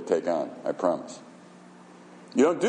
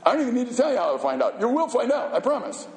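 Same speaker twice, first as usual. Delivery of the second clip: laughing taunt; 11 semitones higher than usual. Real, not acted.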